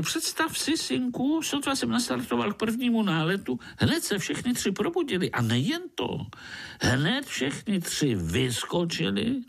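dramatic mosquito tale; excited mosquito tale. Acted. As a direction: rush through the adventure. Mosquito tells his chase.

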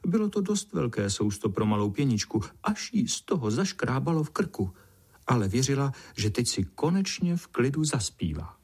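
ordinary delivery

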